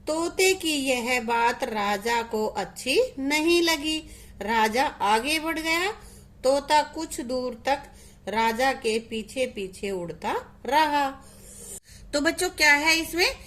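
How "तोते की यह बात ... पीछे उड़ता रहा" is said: slow, deliberate read-aloud; measured classroom storybook narration; story reading for children. A narrator's reading. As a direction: read it slowly, word by word, to a class. Reads the lesson story aloud.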